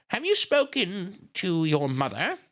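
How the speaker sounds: put-on high, slow old-lady voice. A narrator's reading. Miss Miller questioning grieving Nita, slow old lady. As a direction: draw it out as a genteel old woman. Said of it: "she's an old lady".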